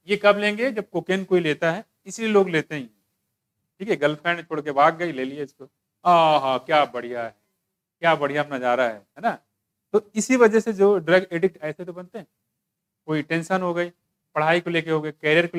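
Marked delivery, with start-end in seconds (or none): 6.0-9.3 lazily relishing, pitched low; euphoric user. Acted. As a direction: sigh with mock bliss at the view. Acting out euphoric cocaine user.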